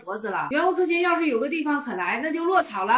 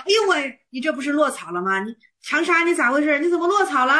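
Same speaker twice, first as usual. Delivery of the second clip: flustered alarm; 3 semitones higher than usual. Acted. Master panics over Changsha's slip, flustered and exclaiming. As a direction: act out a master suddenly thrown off. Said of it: "元悟克勤一看慌了".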